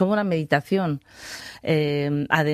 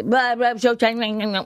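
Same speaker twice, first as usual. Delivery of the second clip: put-on baby babble; 3 semitones higher than usual. Shown as a demonstration. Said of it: "explorar la voz como si fueras un bebé".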